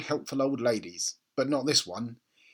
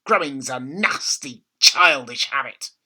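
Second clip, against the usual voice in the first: bossy grandma; 8 dB louder, slower than usual. A narrator's reading. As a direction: lay down the rule slowly. Grandma voiced in read story.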